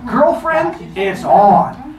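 high start, loud punchy finish; sassy challenge. Acted. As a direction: throw down the challenge with sass. Goddess accepts the challenge.

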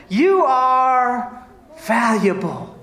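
drawn out, each word weighed; slow sincere declaration. Real, not acted. Pastor assuring the congregation they are valuable. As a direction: tell them their worth slowly. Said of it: "declaring to congregation".

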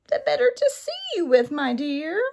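high sly wolf in granny guise; sneaky wolf faking sweetness; werewolf. A narrator's reading.

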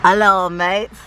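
playful mock-Australian greeting; Australian accent. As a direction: greet them in a put-on Aussie accent. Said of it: "that was my Australian accent".

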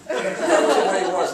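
speaking through loud laughter; laughing. Real, not acted. Recalling Kennedy's non-apology, talking through laughter. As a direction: laugh while telling it.

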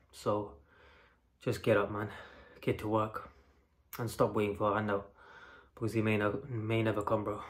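panting after a gym session; out of breath. Real, not acted. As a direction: talk while still catching breath. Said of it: "Apologies for the out of breath".

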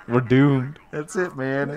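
loud, high mock lament; mock despair. Real, not acted. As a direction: wail it dramatically.

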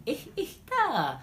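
"eh, ta" with the S of está softened to a breath; dropped S. Shown as a demonstration. Teacher showing the vanishing S, "eh, ta" said without S. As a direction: let the S vanish in "eh, ta". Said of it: "yung S na parang nawawala".

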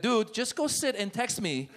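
hushed warning. Retold or imitated. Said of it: "I'd be like".

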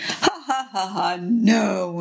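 lightly acted gloating "ha ha", drawn out; excited mock laugh. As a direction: chuckle in mock triumph, stretching the no. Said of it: "he's so excited".

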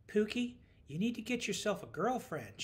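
high, motherly instruction. A narrator's reading. Woman instructing her coworker, like her mother. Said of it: "in a tone much like her mother used".

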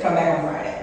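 matter-of-fact order, lightly imitated rasp; raspy casting lady. Casting woman dismissing an auditioner, lightly imitated raspy voice. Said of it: "white woman with a raspy voice".

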